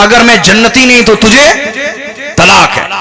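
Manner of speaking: high-pitched retelling of an angry divorce threat; retold angry husband. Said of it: "وہ غصے میں آ گیا".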